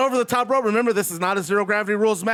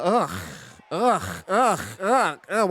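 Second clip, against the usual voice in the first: disgusted ugh; much slower than usual. Real, not acted. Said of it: "I burped and I threw it".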